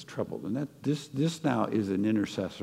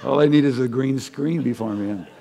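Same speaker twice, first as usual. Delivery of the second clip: laughing; 3 semitones higher, 6 dB louder than usual. Real, not acted.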